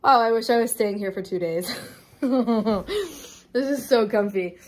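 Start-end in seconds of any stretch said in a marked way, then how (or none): 2.2-4.6 slow, laughing contentment; laugh, then stretch it out lazily; delighted laughing. Real, not acted. Trying out the first couch, laughing with delight.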